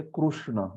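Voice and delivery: कृष्ण said as kru-shna with a rounded u; कृष्ण with a kru sound, Marathi way; Marathi-style Krishna. Shown as a demonstration. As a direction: demo of the Marathi pronunciation. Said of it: "Marathi लोग कृष्णा शब्द को कैसे बोलते".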